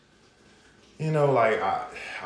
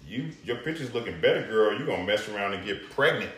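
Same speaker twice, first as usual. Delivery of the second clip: lightly voiced comedian, raised pitch; Tracy Morgan impression; 4 semitones higher than usual. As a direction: do a light, playful celebrity impersonation. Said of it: "In my Tracy Morgan voice".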